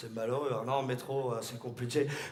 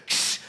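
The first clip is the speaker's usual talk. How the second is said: door hiss sound. Acted. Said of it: "j'arrive comme ça, je fais".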